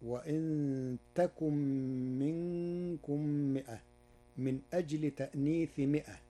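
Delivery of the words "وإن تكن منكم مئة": تكن said with ta, slow and drawn out; slow tajwid recitation; Warsh reading with ta. Shown as a demonstration. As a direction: recite تكن with a ta sound, slowly. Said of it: "قرأ ورش كلمة يكن بالتاء".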